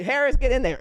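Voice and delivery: loud coach's command; coach calling out. Retold or imitated. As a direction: bark it like a coach sending a player in.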